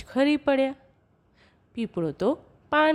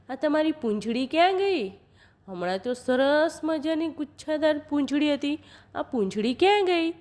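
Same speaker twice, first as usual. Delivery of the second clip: a touch of surprise, pitched up; lightly voiced puzzled cowherd; 4 semitones higher than usual. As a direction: ask in mild astonishment, higher voice. Cowherd questions the jackal.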